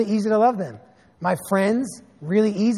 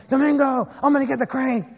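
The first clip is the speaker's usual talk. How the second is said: put-on drunk neighbor yelling; 5 semitones higher than usual. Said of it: "Mateo's outside yelling".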